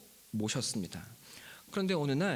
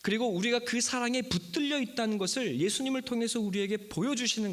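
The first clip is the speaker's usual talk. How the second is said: fervent preaching; 8 semitones higher than usual. Real, not acted. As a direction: preach it high and insistent, stretching the key words. Preacher proclaims the sermon's message. (높은 음으로 힘주어 선포하는 설교)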